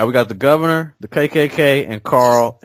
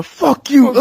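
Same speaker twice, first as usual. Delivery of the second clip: sudden high yelled curse; hammed-up angry outburst; mock shout; 13 semitones higher, 4 dB louder than usual. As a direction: bark it out like a kid lashing out. Carl attacks Tyrese in retold joke.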